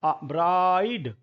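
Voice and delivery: ब्राइड said with a clear ai; vowel demo. Shown as a demonstration. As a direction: land the ai in ब्राइड. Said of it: "आई, आई". (ब्राइड में आई साफ़ बोलना)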